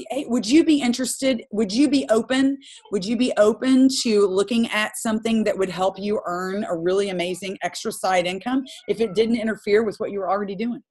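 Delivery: sample recruiting pitch. Shown as a demonstration. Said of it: "back it up with saying".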